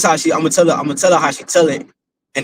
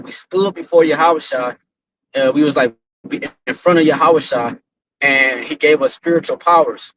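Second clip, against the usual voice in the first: slow, careful, word by word; father repeating exactly how his daughter told it, slowly; imitating her slow telling. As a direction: slowly retell the dream as she did. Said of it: "This is exactly how she said it".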